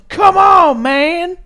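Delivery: loud, high mock yell; Rusev. Podcaster imitating the wrestler after a two count, yelling. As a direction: belt it out as an exasperated shout. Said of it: "and just yells".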